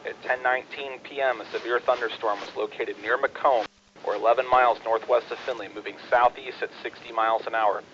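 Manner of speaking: steady bulletin read over the radio; terse radio update. Acted. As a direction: read the warning like a net controller. Reads warning text on net.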